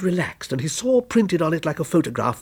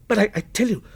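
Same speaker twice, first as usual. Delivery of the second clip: crying out in fear; 6 semitones higher than usual. A narrator's reading. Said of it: "cried Walter".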